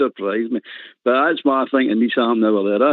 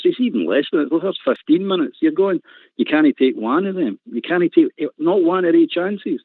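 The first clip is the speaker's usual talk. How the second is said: higher, heated rant about missed chances; 4 semitones higher than usual. Real, not acted. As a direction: get worked up and let it pour out. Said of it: "I'm ranting".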